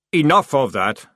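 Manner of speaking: loud, sharp order; snapping. A narrator's reading. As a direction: cut them off sharply. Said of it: "snapped Jackram".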